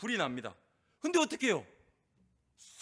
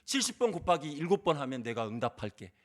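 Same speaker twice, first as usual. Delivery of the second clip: mock bargaining God; 5 semitones lower, 5 dB louder than usual. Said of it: "이런 말씀 있습니까?".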